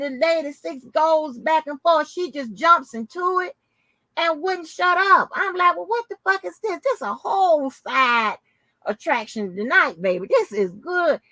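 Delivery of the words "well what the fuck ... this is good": excited hollering. Retold or imitated. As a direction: hype it up like a rowdy fan. Mock heckling on the live.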